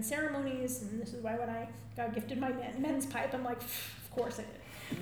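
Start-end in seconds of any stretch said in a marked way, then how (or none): 3.6-5.0 slow, airy puff then of course; dismissive scoff. Retold or imitated. Telling how they got gifted a pipe, scoffing. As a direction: scoff softly as if it's obvious. Scoffing recalled reaction to a gift.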